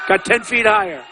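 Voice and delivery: a real rally shout; emphatic shout. Real, not acted. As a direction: hammer it home for the crowd. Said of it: "Mean it".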